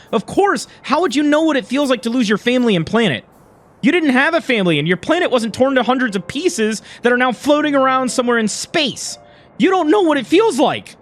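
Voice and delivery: hurt, angry retort, pitch rising; heated argument. Acted. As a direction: throw it back as a mildly angry accusation. Acted quarrel over lost family.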